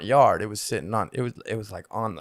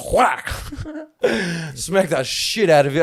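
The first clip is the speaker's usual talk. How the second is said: mock whack; 5 semitones higher, 4 dB louder, slower than usual. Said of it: "Grandpa runs up and says".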